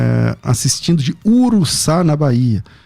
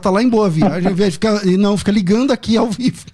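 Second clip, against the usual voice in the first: playful mock complaint, pitched up; teasing; 6 semitones higher than usual. Real, not acted. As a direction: rib him about the beach. Joking about caller at beach.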